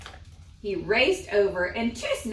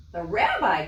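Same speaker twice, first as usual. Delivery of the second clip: 1 crying out; 5 dB louder than usual. Acted. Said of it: "cried Fagel".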